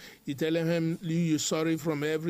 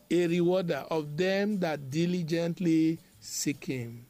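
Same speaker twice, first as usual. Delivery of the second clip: deliberate emphasis. Shown as a demonstration. Same scripture repeated for emphasis.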